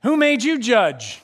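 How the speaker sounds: mild mock indignation; indignant retort. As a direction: throw it back at him. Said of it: "And they go".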